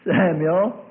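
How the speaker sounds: acted summons, lifted and drawn out; persistent call. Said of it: "that voice persisted and said".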